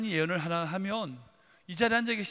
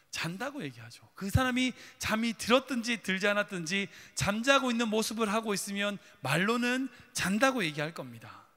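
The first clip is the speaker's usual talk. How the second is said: ordinary talk, nothing marked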